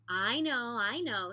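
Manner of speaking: an excited repeated agreement; eager agreement. A narrator's reading. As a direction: jump in eagerly. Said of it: "said Mister Seahorse".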